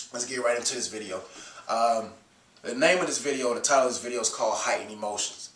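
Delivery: stuffy voice from a cold; blocked nose. Real, not acted. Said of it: "if I sound like I'm, uh, stuffed up, I got a little cold".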